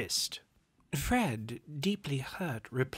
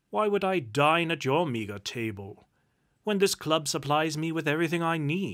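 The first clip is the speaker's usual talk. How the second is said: ordinary delivery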